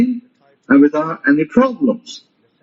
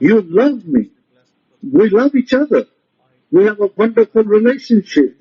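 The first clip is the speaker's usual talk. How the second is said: higher, firm, certain declarations; commanding voice; 4 semitones higher than usual. Shown as a demonstration. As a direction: command it, leave no room for doubt. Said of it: "command it with a commanding voice".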